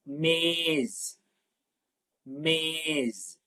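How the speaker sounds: మేజ్ said slowly with a clear buzzing z at the end; careful pronunciation. Shown as a demonstration. Teacher showing the class how to pronounce మేజ్. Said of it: "జా అని పలకాలి దాన్ని".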